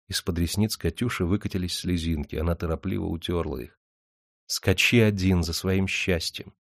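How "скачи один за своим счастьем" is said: estranged. Acted. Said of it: "отчуждённо сказала она".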